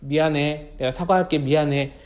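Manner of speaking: low, soft, contrite apology; subdued acted sorry; apologetic. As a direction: apologise meekly to a hurt friend. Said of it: "사과하는 거야".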